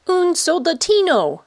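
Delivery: put-on high, bright child's cry of delight; excited child. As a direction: squeal it like a thrilled little boy. Boy delighted by toy soldier.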